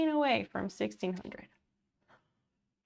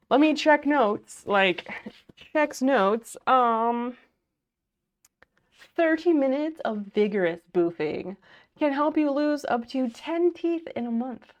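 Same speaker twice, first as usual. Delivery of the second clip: louder mock anchor read; newscaster voice; 2 semitones higher, 5 dB louder than usual. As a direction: read the headline like a news anchor. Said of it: "My newscaster voice".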